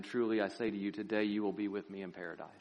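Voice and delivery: low, softened solemn promise; quiet assurance. Acted. Jesus promising the dying robber paradise, low and soft. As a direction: give the promise quietly, voice settling down.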